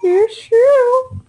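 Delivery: squawky cartoon duck voice. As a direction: quack the words like a duck. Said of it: "Are you the duck voice?".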